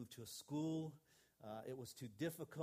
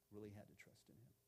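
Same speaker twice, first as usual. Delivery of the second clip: much softer repeat with "Really" stressed and a rising end; hushed repeat to let it sink in; soft echo; 3 semitones lower, 11 dB quieter than usual. Shown as a demonstration. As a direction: echo it quietly, "Really" lifted. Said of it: "where we really had to trust".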